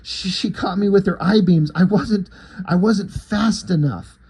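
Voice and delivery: mildly breathless retelling, halting with restarts; out of breath. Retold or imitated. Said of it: "out of breath".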